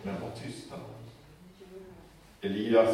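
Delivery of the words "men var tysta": breathy whispered hush, high and soft. Acted. Elisha whispering to the prophets to keep quiet. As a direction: whisper it as if silencing a crowd.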